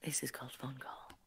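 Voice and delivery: whispered. Real, not acted. Announcing the story title.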